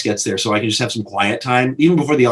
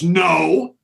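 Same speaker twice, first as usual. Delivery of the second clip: slow, emphatic, higher insistence; generous George; 5 semitones higher, slower than usual. Retold or imitated. George tells the director his way was better, emphatic. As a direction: insist warmly, each word weighed. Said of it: "and he goes".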